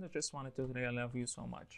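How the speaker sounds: quick, soft declaration of love; softly tossed-off endearment in casual connected speech; wife to husband. Acted. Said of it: "Just a wife or her husband".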